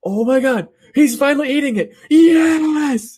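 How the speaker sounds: very high, thrilled shriek; gleeful squeal. Retold or imitated. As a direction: squeal it like a delighted fan. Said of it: "I have written in my notes".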